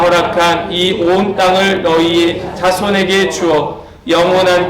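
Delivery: slow, measured reading together with the church; unison scripture reading. Shown as a demonstration. Pastor leads the congregation reading Exodus, slow unison reading. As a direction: read the verse aloud with everyone, steady and slow. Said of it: "함께 읽겠습니다".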